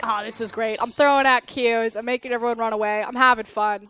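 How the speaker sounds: mock enthusiasm with little lift in pitch; not fun voice. Caster acting out a joyless Karma player, not fun voice. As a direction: claim to be having fun in a not fun voice. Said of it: "this is my not fun voice".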